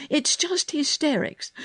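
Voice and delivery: high, impatient dismissal; screamed rebuke. A narrator's reading. Girl scolds the choking boy, high screamed rebuke. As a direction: dismiss his panic sharply. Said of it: "Mary screamed".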